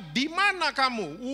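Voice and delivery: slow, stern calling out; angry God. Retold or imitated. Preacher mimics Sunday-school God, slow and mock stern. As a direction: demand it like an angry father. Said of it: "Tuhan lagi marahnya luar biasa".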